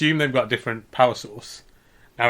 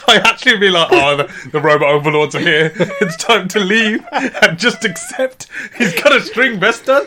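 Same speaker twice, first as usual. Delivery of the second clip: laughing; 4 semitones higher, 4 dB louder than usual. Pretend. Imagined panicked reaction, laughing.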